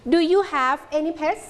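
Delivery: slow "do you have any pets", rising at the end; rising question tune. Shown as a demonstration. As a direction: raise the voice on "pets" for a yes-no question. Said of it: "ครูแก้วขึ้นเสียงสูง".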